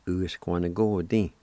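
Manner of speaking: "Uisquanagodi" as one joined word; whole-word pronunciation. Shown as a demonstration. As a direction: model "Uisquanagodi" without syllable breaks. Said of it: "pronounce these words one more time".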